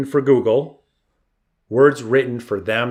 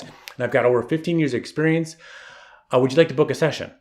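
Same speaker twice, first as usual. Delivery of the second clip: high, fast, chirpy sales pitch; over-the-top self-promoting photographer; mock salesy website voice; 4 semitones higher, faster than usual. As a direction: rattle it off like a bragging homepage. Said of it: "none of us talk like that in person".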